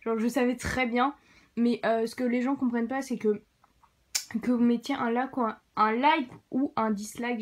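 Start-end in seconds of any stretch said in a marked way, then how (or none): 4.4-7.4 speaking with a numb mouth after dental surgery; words slurred by anesthesia. Real, not acted. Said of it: "j'ai du mal à parler".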